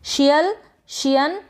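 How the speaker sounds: slow drill, each ending set apart; practice drill. Shown as a demonstration. Teacher modelling endings for learners to practise, slow drill. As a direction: pronounce the endings slowly, one by one. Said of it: "इस तरीके से".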